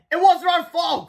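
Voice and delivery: high, loud protest; protesting cry. A narrator's reading. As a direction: plead innocence loudly. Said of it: "cried Harold".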